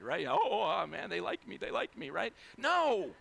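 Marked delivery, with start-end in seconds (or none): 0.3-2.1 lightly gushing pastor; mock excitement. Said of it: "you get all excited". 2.6-3.1 loud, high "No!"; emphatic refusal. Acted. Rebutting the pastor's imagined self-flattery.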